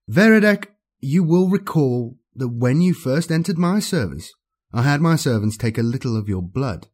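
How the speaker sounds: cold, commanding dark lord; menacing overlord. Acted. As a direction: speak down to a doomed servant. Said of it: "Kepsilon's deep voice echoed".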